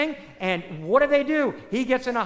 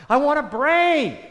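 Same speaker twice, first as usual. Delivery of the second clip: scarecrow's plea; 5 semitones higher, 8 dB louder, slower than usual. Acted. Scarecrow quoted in sermon.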